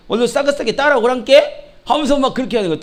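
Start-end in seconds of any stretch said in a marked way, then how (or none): 0.1-1.7 lightly imitated Jeolla dialect call. Shown as a demonstration. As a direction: call the flock in a Jeolla accent. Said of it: "전라도 말은". (살짝 흉내 낸 전라도 사투리)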